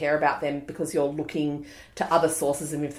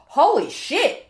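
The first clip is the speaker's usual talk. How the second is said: stunned; 9 semitones higher, 6 dB louder, slower than usual. Retold or imitated. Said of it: "his first reaction when he saw her was like".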